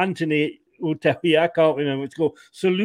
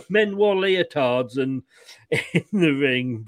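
laughing; slower than usual. Real, not acted. Laughing at old wrestling memories.

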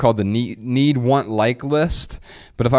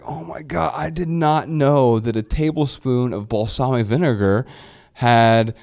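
mock freak-out; 3 semitones higher than usual. Dieter scrutinizing balsamic vinegar, in mock freak-out. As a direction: play up a small shock, lightly. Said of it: "freaking out about".

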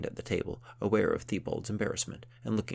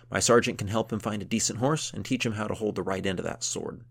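gruff count voice; 3 semitones higher, 5 dB louder than usual. Acted.

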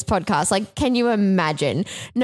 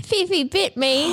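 startled, high and slow; surprised; 7 semitones higher, slower than usual. Real, not acted. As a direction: react to a sudden bite. Cat bites during recording.

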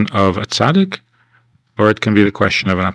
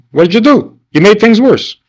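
much higher, incredulous protest; exasperated complaint; 10 semitones higher, 4 dB louder than usual. Retold or imitated. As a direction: throw it back at God. Moshe complaining to God.

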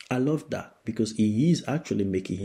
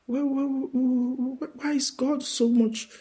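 mocking the witches. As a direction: play the baffled witches. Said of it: "they're wondering".

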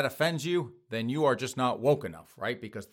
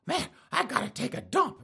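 mock desperate whine; 13 semitones higher than usual. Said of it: "They're walking around going".

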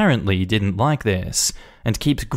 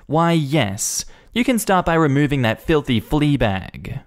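snooty Karen; 5 semitones higher than usual. Acted. Karen voiced demanding dog removed.

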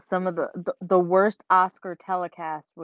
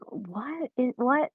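higher, halting confused question; 7 semitones higher, much slower than usual. Retold or imitated. Host replaying the botched name moment, confused. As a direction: stumble over WHAT as if baffled. Acting out own baffled reaction.

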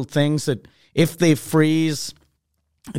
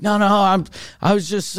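higher-pitched hasty denial; mock-innocent, pitched up; flustered denial; 4 semitones higher than usual. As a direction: cover up being caught napping. Faking being awake on phone.

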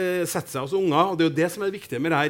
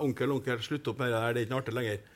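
nephew's correction; 5 semitones lower, 9 dB quieter than usual. Retold or imitated. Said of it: "da begynte han å rette på meg".

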